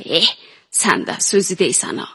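slipping into Azeri Turkish; Ardabili Turkish accent. Acted. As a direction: mix in Turkish with an Ardabil lilt. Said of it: "فارسی ترکی بکنید این پریا رو".

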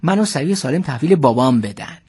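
storyteller's voice with drawn-out key words; story narration. A narrator's reading. Driver recounts the trip with his elder passenger, story narration. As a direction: tell it wryly, dwelling on the big words.

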